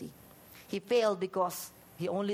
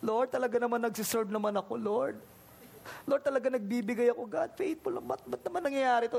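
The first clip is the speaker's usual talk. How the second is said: pleading lament; 2 semitones higher than usual. Acted. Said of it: "Hezekiah wept bitterly, like".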